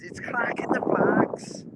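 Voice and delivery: hammed-up, badly faked Liverpool accent; terrible Scouse accent. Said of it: "Scouser accent".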